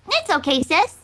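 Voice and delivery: little filly voice. Acted. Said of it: "A little filly said".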